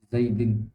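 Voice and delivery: زیدن with a clear -in ending, zaidin; showing the genitive ending of زیدن; case ending demo. Shown as a demonstration. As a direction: end the word on a bright -in. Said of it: "ہم تلفظ کر رہے ہیں اس پہ".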